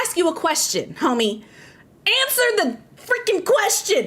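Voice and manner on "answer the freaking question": higher, slow exasperated demand; slow exasperated plea. Acted. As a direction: plead it, fed up and incredulous. Ranting at unhelpful people.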